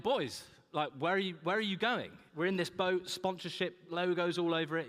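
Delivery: put-on a lightly done northern English drunk on a pedalo; northern accent. Tourist on a pedalo hailing the rowers, light northern accent. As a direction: call out to the boys in a broad northern accent, loosely. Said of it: "was that a northern accent".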